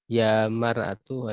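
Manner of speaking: "Ya mar'atu" slow, with the final tu clearly sounded; with damma ending. Shown as a demonstration. Teacher models the vocative noun ending, slowly. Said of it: "Mar'ah ya".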